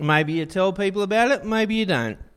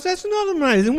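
much higher, exasperated rebuke as God; God scolding his people, pitched way up; 10 semitones higher than usual. Acted. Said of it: "God goes".

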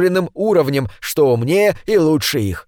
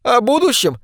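mocking laugh; 9 semitones higher than usual. A narrator's reading. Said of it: "Наташа рассмеялась".

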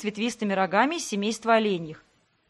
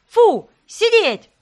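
at the top of the lungs, much higher; yelled command; 11 semitones higher, 10 dB louder, much slower than usual. Acted. Heroine yells at the top of her lungs to stop the dog. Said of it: "заорала во всё горло".

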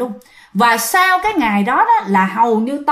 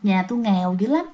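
much softer muttered plea; grandma muttering to the ghost, much softer; 2 semitones lower, 7 dB quieter, faster than usual. Retold or imitated. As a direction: mutter it under your breath. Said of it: "lẩm bẩm trong miệng".

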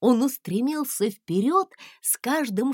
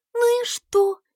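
very high, loud brush-off; exclaiming; 14 semitones higher, 6 dB louder than usual. A narrator's reading. Princess exclaiming to the scared dragon. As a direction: wave away his doubt. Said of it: "воскликнула принцесса".

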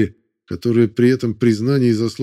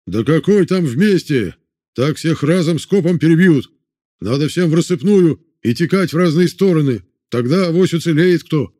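arguing prisoner; 6 semitones higher, 3 dB louder than usual. A narrator's reading. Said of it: "Не соглашались с чекистом".

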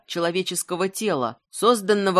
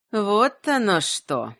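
hissing; slower than usual. Acted. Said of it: "прошипела бабка Бажана".

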